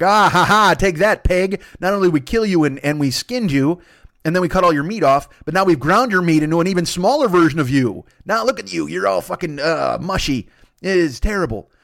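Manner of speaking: loud, taunting triumph over the pig; mock the pig with loud glee; gloating caveman. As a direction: caveman rubbing it in, loud and smug.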